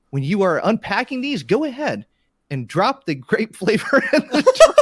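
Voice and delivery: breaking into laughter reading; can't keep a straight face; cracking up mid-read. Pretend. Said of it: "Let me try this again".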